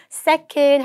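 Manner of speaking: "Second" said as "secon", final D dropped; silent D. Shown as a demonstration. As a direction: leave the D off "Second". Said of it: "D는 소리 나지 않아요".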